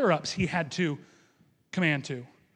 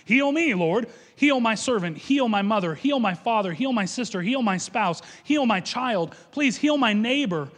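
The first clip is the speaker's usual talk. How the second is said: urgent pleading; 4 semitones higher, 4 dB louder than usual. Acted. Preacher voicing desperate petitioners.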